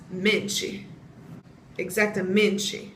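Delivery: mente ending "-chee", last E sounded; final E pronounced. Shown as a demonstration. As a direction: say mente as "men-chee", exactamente likewise. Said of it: "resources have been saying that it's pronounced".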